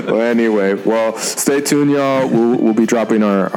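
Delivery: rough, slow hoarse voice. Real, not acted. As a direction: talk through a hoarse throat. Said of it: "my voice is hoarse".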